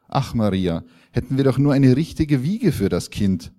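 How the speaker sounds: mild sigh of regret, rising in pitch; understated husband's lament. Acted. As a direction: sigh it wistfully to a wife. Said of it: "seufzte ihr Mann".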